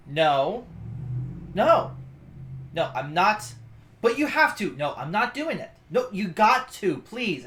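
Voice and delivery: mock argument, pitch jumping up; fussing back and forth. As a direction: act out a refusal and a pleading comeback. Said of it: "she appears to be fussing at him".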